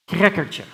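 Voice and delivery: crackertje with a throaty Dutch k-r and -tje ending; Dutch word demo. Shown as a demonstration. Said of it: "And now we have".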